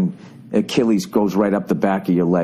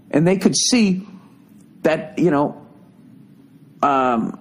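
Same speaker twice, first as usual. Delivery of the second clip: normal talking voice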